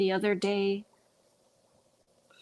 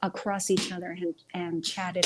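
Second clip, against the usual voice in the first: stuttering. Real, not acted. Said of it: "I think that's why I'm stuttering".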